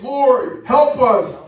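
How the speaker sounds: slow, loud pleading call of the blind men; crying out to the Lord. Retold or imitated. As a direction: call out slowly for help, as if begging. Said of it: "They cried out twice".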